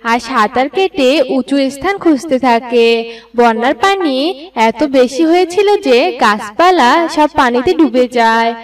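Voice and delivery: plain reading voice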